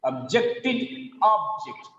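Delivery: slowly, ob-JECT-ed then OB-ject in "Objected object"; contrasting word stress. Shown as a demonstration. Teacher contrasting verb and noun, stress shifts in "Objected object". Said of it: "The first syllable is stress".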